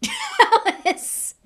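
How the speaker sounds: very high, loud scoffing jeer. A narrator's reading. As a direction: spit the word back. Malfoy scoffing.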